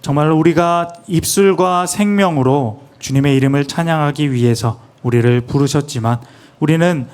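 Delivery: reverent prayer, measured and steady; interpreted prayer. Acted. Interpreter praying in Korean for the church, reverent. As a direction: pray it humbly for the people.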